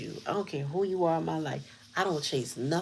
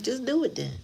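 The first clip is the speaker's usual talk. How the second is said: higher, dismissive imagined reply; imagined fed-up brush-off, pitched higher; exasperated retort; 6 semitones higher than usual. Retold or imitated. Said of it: "but I'd be like".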